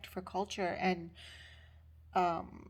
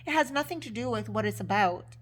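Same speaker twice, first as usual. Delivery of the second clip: mock livid retort, louder; imitated livid; 6 dB louder than usual. Livid instructor dismisses student's answer, angry. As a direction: imitate an irate instructor cutting someone down. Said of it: "she is so livid".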